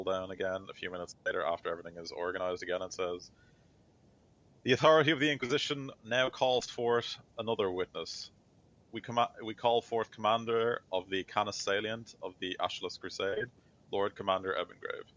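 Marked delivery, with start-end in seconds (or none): 4.6-15.1 raised, proclaiming court announcement; formal court summons. Acted. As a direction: call the witness forth to the whole court. Court herald calls a witness.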